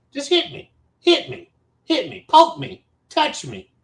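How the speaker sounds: high-pitched furious taunt at the man poking him; high taunting dare. Retold or imitated. Retold standoff, daring him to hit.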